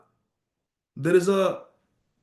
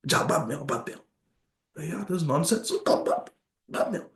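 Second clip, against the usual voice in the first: dismissive brush-off; 2 semitones lower, 7 dB quieter, much faster than usual. Acted. Dismissing the guru, come later.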